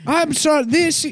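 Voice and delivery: high, measured speech-synth voice; computer voice. Retold or imitated. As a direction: speak like a glitchy speech computer. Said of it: "my computer voice".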